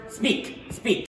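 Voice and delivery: hushed, breathy demand; urgent whisper. Acted. A wife pressing the lords for news, in a hushed urgent whisper. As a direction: whisper it, desperate to know.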